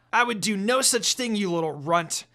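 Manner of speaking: high, loud snarl. A narrator's reading. Inuyasha snarling at Shippo, high and loud. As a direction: snarl down at the kid. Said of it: "Inuyasha snarled at Shippo".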